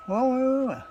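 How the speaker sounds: high, loud sudden stop; sudden realization. Real, not acted. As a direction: catch a mistake mid-thought. Realizes wiring mistake.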